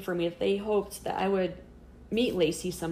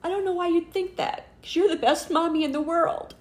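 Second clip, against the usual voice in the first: much higher, earnest voicing of a daughter; reassuring child; 9 semitones higher, 5 dB louder than usual. Daughter comforts mom who doubted herself, imitated earnest child.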